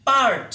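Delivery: পার্ট with a crisp final ট, falling; clear pronunciation. Shown as a demonstration. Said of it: "তাহলে কি হলো?". (স্পষ্ট উচ্চারণ, পার্ট)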